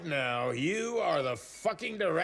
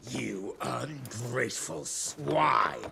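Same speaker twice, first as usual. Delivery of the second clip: slow, lower indignant snarl; outraged retort; 4 semitones lower, slower than usual. Acted. Harrow retorting to Amelia's insults, outraged.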